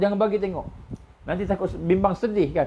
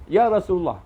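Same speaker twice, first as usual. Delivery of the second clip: higher, gentler plea; 5 semitones higher, 4 dB louder than usual. Acted. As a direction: call to him again, less forcefully. Son calls the Prophet again.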